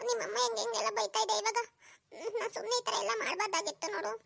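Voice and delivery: soft laughing aside to husband; laughing bride. Acted. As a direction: giggle it under her breath. New bride whispers to husband. (ನಗುತ್ತಾ ಮೆಲುದನಿ)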